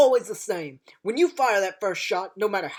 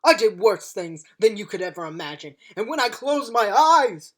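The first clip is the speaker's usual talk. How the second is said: booming rousing general speech; 3 semitones higher, 5 dB louder than usual. Acted. Fierce speech about past war.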